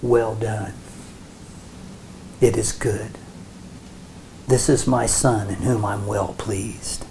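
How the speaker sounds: low, soft, understated words of approval; lightly voiced Father. The Father answers Yeshua's light, lightly voiced, low and soft. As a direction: lightly play God approving, quiet and unhurried. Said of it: "And the Father said".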